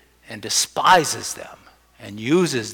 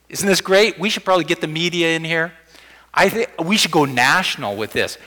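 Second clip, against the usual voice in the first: mock hype; 4 semitones higher, 3 dB louder than usual. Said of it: "Let's suppose I said to you".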